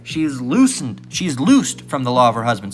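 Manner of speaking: slow solemn reading; scripture reading. Acted. Preacher reading Romans to the congregation, slow and solemn. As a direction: read it slow and weighty.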